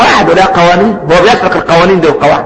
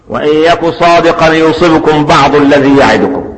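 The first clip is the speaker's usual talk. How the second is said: slow, melodic tajweed chant of the verse; slow measured Quranic chant; Quran recitation; slower than usual. Acted. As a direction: draw each word out as in recitation.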